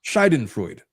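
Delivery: Schadenfreude echoed as SHY-den-froyd; repeating the pronunciation. Shown as a demonstration. Repeating the co-host's version, careful echo. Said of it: "it's Schadenfreude".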